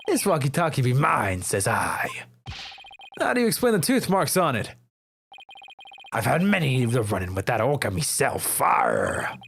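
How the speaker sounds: a lightly growled pirate challenging the lawyer; gruff sailor talk, daring them; pirate witness. Acted. Pirate witness scoffs at the lawyer's accusation, lightly gruff.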